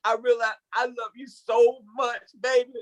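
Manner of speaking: lightly voiced sweet-talking husband; a hint of a pleading suitor; husband proposing. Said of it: "He's like".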